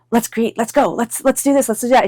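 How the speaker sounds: string the urges together eagerly; eager urging. Acted. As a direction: act out restless enthusiasm, urging them on. Acting an eager fire sign.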